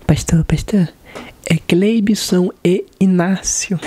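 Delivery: hushed whisper in his ear; whisper to pastor. Retold or imitated. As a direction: whisper the names up close, slowly. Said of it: "cheguei no ouvidinho dele".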